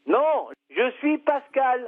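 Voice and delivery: slow, emphatic self-identification; deliberate, drawn-out correction; insistent correction. Real, not acted. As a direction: spell it out slowly to someone confused. Corrects caller who misnames him.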